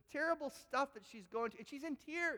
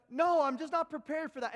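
high, louder refusal from the neighbor; neighbor's refusal; 6 semitones higher, 9 dB louder than usual. Retold or imitated. Neighbor turns down the pastor's prayer, high and loud. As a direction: brush him off, firm and high. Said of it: "she went".

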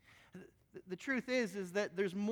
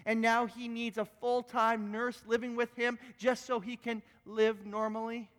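angry lawyer; 3 semitones higher than usual. Retold or imitated. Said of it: "he said again".

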